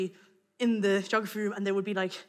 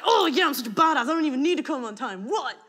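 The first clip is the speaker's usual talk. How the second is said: mock badass; 3 semitones higher than usual. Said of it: "it would have been like".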